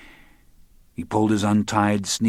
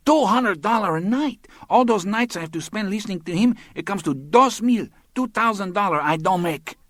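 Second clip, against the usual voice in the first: put-on much higher, complaining young woman's voice; aggrieved young woman; 12 semitones higher than usual. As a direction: whine at him in broken English, wounded pride.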